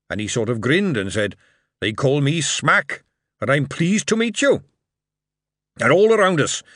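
put-on old dwarf father recounting Coombe Valley to his son; old dwarf veteran. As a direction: tell it like an old soldier by the fire. Old dwarf retells the battle.

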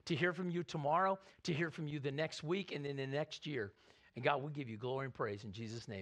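earnest spoken prayer to God. Acted. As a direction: pray over the congregation, steady and sincere. Pastor prays before sermon.

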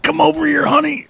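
high, sweet coaxing dad voice; imitating dad. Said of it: "He's like".

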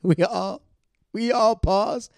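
loud hammed-up storytelling; dramatic pause. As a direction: bellow it out like a big reveal. Dramatic retelling of shock.

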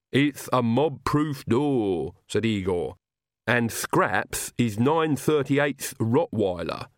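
slow, lisping servant voice; Igor voice. Acted. Igor tells Nanny about the old Count, slow servant voice. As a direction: speak like a devoted old servant.

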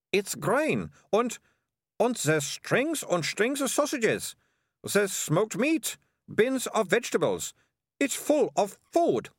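put-on high, slowed girl's voice full of wonder; awed girl. Melissa finds the hidden food in the cellar, wondering. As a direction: savour each find as if it's treasure.

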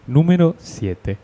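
slow, drawn-out mock Dross announcer voice, lightly done; Dross impression. Imitating Dross to announce the word number, slow. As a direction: stretch out "número" slowly, imitating Dross. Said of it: "cuando imito a Dross me salen cosas asquerosas".

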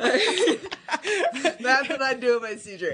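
laughing through the words. Real, not acted. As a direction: giggle while saying it. Laughs while speaking.

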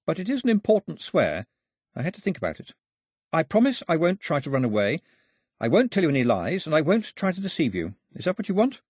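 put-on high-pitched, measured girl making an oath; earnest girl promising. Voices girl promising her captor.

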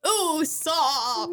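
put-on character voice; Usopp voice. Shown as a demonstration. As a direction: stretch the name out in a cartoon voice. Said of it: "take that and make it".

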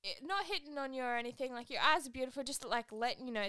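mock UK accent, easing back down; bad UK accent. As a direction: clumsily imitate a Manchester lad's accent. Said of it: "my U K accent is not good".

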